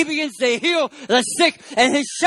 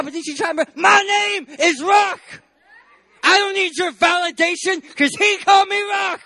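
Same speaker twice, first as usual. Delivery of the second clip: defiant Peter; 4 semitones higher than usual. Acted. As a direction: stand tall and shout down the doubters. Peter voiced defiantly answering critics.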